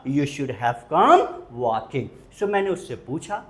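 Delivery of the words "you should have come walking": slow, clear advice; slow model sentence. Shown as a demonstration. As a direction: say it slowly as a model. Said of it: "So मैंने सलाह दी". (धीमी सलाह)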